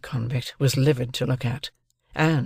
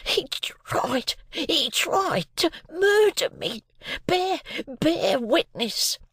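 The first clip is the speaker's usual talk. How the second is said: high, slow, breathless plea; gasping; 13 semitones higher, much slower than usual. A narrator's reading. Beaten convict begging soldiers to witness, high gasping. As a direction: gasp out each word. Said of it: "The other one still gasped".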